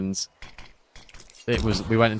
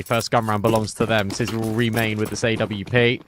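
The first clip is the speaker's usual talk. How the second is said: esports caster. Acted. Live play-by-play cast.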